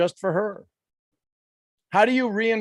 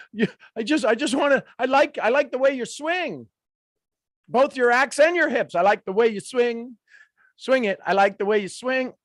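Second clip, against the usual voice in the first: flirty; 5 semitones higher than usual. Pretend. Flirty voice for the warrior.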